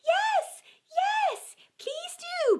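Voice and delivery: very high, loud excited chorus; cheering. Acted. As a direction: cheer along with the crowd. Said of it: "joined in in cheers".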